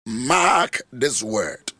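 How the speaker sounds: very slow, heavy mark this word; solemn warning, very slow; slow emphatic. Shown as a demonstration. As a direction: drag out "Mark this word" deliberately.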